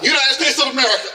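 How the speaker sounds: blurted out. Retold or imitated. Nervous traveler to the border guard, blurted out. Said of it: "I just blurt out".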